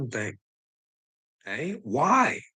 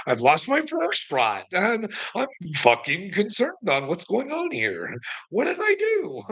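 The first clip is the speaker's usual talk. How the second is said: mock bewildered; 6 semitones higher than usual. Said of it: "I'm like".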